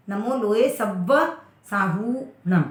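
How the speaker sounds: slow, measured "नमो लोए सव्व साहूणम" with long हू; "साहूणम" set apart, hu drawn out; long hu demonstration. Shown as a demonstration. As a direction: recite slowly, pause before "साहूणम" and hold its oo. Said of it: "हु की मात्रा दीर्घ होने से".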